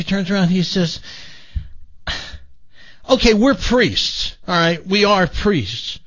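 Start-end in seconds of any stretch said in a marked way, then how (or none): 3.1-6.0 "we're priests" slow and high, then "We are priests" slower, each word separate; mock-insistent confession, drawing out "priests"; emphatic admission. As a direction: spell out "We are priests" slowly and firmly.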